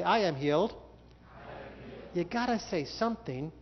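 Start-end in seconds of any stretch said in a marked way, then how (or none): 0.0-0.7 called out confession. Shown as a demonstration. 0.7-2.0 whispered. Shown as a demonstration.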